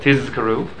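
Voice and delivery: Tizkaru with a clearly voiced Z, said out loud; clear Z sound. Shown as a demonstration. Rabbi teaches students to voice the Z in the prayer. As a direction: voice the Z in Tizkaru plainly, not whispered. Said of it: "You better say it out loud".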